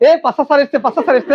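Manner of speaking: imitating excited Rajshahi students, "pasa" for Pasha; mock Rajshahi call announcing the teacher; Rajshahi accent. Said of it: "রাজশাহীর লোকরা উচ্চারণ করে পাশা". (রাজশাহীর টানে নকল ডাক)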